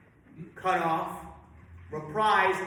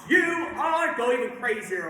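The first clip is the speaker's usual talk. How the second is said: urging shout; 3 semitones higher, 4 dB louder than usual. Real, not acted. Conductor urging louder singing.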